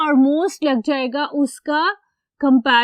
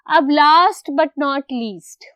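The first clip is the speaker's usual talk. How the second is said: slow announcement; 4 dB louder, much slower than usual. Real, not acted. Announcing the final rule.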